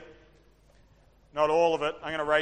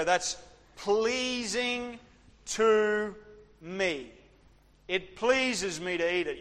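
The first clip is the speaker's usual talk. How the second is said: savouring pleased; 4 semitones higher, much slower than usual. Retold or imitated. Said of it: "I look at that and I go".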